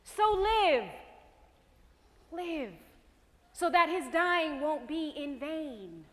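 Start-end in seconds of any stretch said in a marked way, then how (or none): 0.0-0.8 higher, ringing command to live; urgent plea. Acted. Hope urging the broken woman, ringing and higher. 2.3-2.7 soft, falling repeat of the word Live; softened echo. Acted. Hope repeating her plea to the woman, softly.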